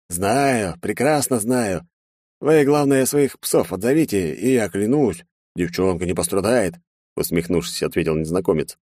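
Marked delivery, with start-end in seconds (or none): 0.1-6.8 put-on high, theatrical villain with a gun to a girl; a showman taking the stage, pitched high; mocking villain. Villain mockingly greets the aristocrats, high and theatrical.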